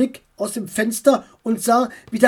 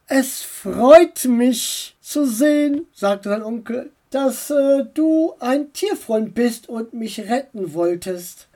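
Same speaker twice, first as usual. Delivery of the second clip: uncle voice; 4 semitones higher than usual. Acted.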